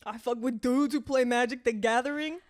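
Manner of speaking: high, loud incredulous question; mock disbelief. Retelling a chef's setup, she squeals in disbelief. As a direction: act stunned at the suggestion.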